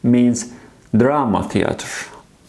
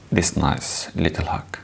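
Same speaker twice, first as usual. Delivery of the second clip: soft whisper; 4 semitones lower, 6 dB quieter than usual. Shown as a demonstration. Teacher whispers while demonstrating handwriting of letter R. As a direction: whisper it softly while writing. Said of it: "We're doing this".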